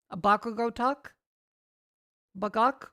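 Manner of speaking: loud hammed-up anime yell; overacted anime dub. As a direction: bark the names like a dub hero. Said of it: "really over the top trying to do the English anime dub accent".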